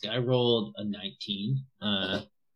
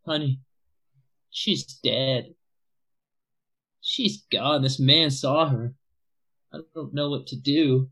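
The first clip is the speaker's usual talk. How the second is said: mild grief; 3 semitones higher, 3 dB louder than usual. Acted. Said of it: "Cam looks over and says".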